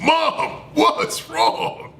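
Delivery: high-pitched imitation of a worried brother; mock panicked call to mom; alarmed son. Brother running up to mom, imitated high alarm. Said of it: "He said".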